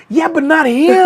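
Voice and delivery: high, laughing through the words; laughing quote. Retold or imitated. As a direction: laugh while backing down. Sergio backing down, retold.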